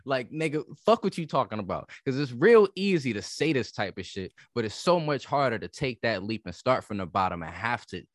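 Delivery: mock-defiant hustler who can't afford dreams; devil's advocate rant. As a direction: push back hard, playing the other side on purpose. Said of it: "trying to play devil's advocate".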